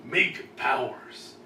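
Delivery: lightly done Macho Man impression; a hint of Macho Man. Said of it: "with the macho voice".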